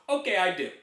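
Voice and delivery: gardener agreeing in an imitated Asian accent. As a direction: mimic broken English with an Asian accent. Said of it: "this is his accent".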